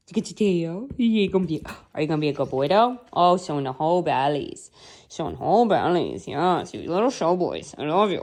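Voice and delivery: lilting, swooping coo to dogs; playful, affectionate pet voice. Real, not acted. Baby talk to dogs.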